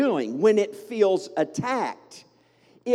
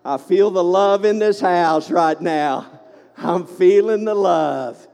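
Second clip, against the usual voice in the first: preacher's call-out; 6 dB louder than usual. Real, not acted. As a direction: call it out to the whole church. Preacher calls out to congregation.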